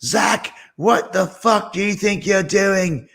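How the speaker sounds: high-pitched imitated scolding; slow, high, indignant dressing-down; Sharon Osbourne, pissed. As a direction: act out an angry woman telling someone off. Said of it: "and she's pissed".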